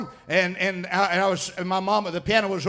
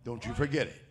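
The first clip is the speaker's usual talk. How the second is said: much lower and softer, reverent; preacher quietly voicing God's charge; hushed solemn quote; 11 semitones lower, 12 dB quieter than usual. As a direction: drop to a near hush for God's words. Hushed divine warning.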